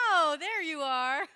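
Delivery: loud, high, pleased greeting; big playful burst of welcome; delighted exclamation. Real, not acted. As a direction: exclaim it as if you just found them. Delighted reply to louder audience response.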